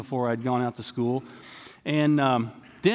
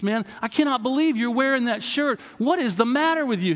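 ranting friend; 8 semitones higher than usual. Retold or imitated. Friend scolding roommate over his polo shirt, high indignant rant. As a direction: scold him for wearing the brand. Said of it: "He is just letting him have it".

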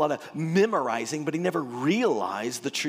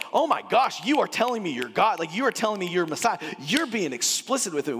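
shocked realization; 5 semitones higher, 3 dB louder than usual. Retold or imitated. Nicodemus realizing Jesus claims God.

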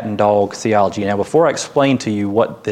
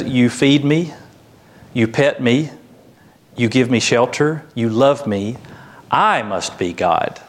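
conclude smugly that I is the divine one; self-important cat. Acted. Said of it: "The cat looks at you and says".

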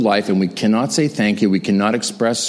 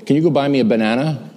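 grandma's request; 4 semitones higher, faster than usual. Retold or imitated. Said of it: "She'd say".

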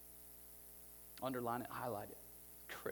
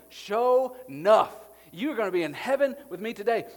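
modern slang; 8 semitones higher, 15 dB louder than usual. Retold or imitated. Jesus promising the thief heaven, in loud drawled slang. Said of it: "To put this in modern vernacular".

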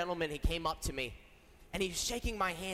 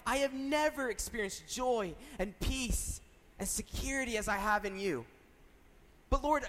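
higher-pitched, heartfelt plea to the Lord; earnest pleading prayer; 4 semitones higher than usual. Retold or imitated. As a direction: retell a searching prayer, voice lifted. Retells own anguished prayer while driving.

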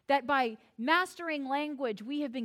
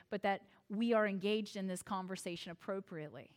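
gentle careful preamble; 5 semitones lower than usual. Retold or imitated. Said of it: "They will say something like this".

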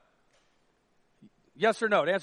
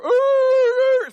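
high, loud mock dog whine; whining dog; 14 semitones higher, 11 dB louder than usual. Pastor imitates his coonhound whining at the door, high and loud. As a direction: whimper like a dog stuck inside.

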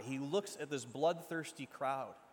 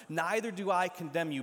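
loud, ringing declaration; Jesus' famous words thundered out; proclaimed loudly; 2 semitones higher, 7 dB louder than usual. Acted. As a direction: call it out to the whole room. Preacher proclaims the famous line.

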